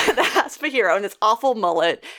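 laughing through the line as she repeats the joke. Real, not acted. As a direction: chuckle it out.

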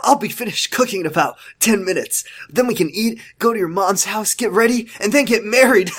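smiling while talking; smile voice. Acted. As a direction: grin through the words. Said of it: "so you gotta do smile voice".

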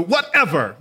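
"whatever" punched as a word on its own; emphatic stress. Real, not acted. Preacher drilling one word into the congregation, emphatic. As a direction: lean hard on "whatever". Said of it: "I really wanna emphasize that".

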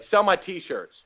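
slow, stretched-out mock command; mock demanding. Visiting star orders the doorman to sell shirts, bossy.

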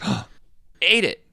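gasp, then high, loud surprise; acted exclamation. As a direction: exclaim it high as if just spotted. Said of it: "So I'd be like".

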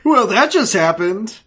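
high, slow hammed-up delivery; mock-cheesy one-liner, drawn out; joking stock quip. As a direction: play up a corny catchphrase. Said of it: "I'm just kidding".

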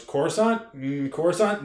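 questioning droid, starting high then dropping; battle droid. Acted. Battle droid answering Qui-Gon, lightly voiced puzzled droid. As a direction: puzzle over the word like a confused droid. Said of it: "And the battle droid goes".

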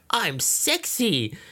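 high, very slow vampy purr. Retold or imitated. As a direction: drawl it like a flattered granny. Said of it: "she's like".

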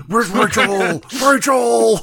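hammed-up high yell for Rachel; mock shout. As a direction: yell it like a cartoon, half-laughing. Mock Ram shouting in banter.

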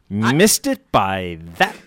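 slow, drawn-out Maxwell Smart catchphrase; lightly voiced sitcom spy, very slow. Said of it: "Maxwell Smart is gonna be coming after me".

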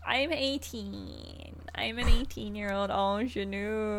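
put-on slow, coy naive-girl voice; mock ingenue. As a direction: play the innocent newcomer, slow and coy. Joking pretend ingenue, slowed.

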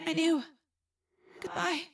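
high, very soft goodbye; fading farewell. A narrator's reading. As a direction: let the voice fade away. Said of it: "She fell silent".

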